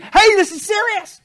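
high, loud urgent cry; preacher crying out high and loud; screaming out. Retold or imitated. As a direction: shout the warning to wake them up. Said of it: "he's screaming out from the Greek".

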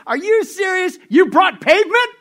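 high, shouted incredulous outburst; mock laughing disbelief. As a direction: shout it as if cracking up. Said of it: "all of a sudden he starts laughing".

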